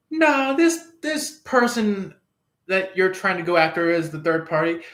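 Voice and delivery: high, fast protest cutting in; squeaky, hurried insisting no; insistent objection. Retold or imitated. Third party protesting to the seeker, high and fast.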